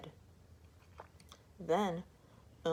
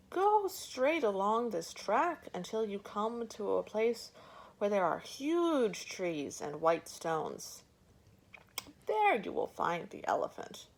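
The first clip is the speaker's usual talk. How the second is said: lazy elephant; 3 semitones higher than usual. Acted. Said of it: "he replied lazily".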